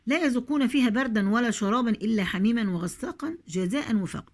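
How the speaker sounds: measured recitation, long vowels held; Quran recitation. Shown as a demonstration. Teacher recites the verse for the class, measured chant.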